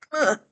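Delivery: effortful grunt; strained grunt while moving. Real, not acted. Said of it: "Excuse my grunting".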